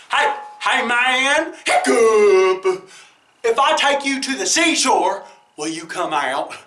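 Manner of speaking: whale voice. Acted. Whale voice calling.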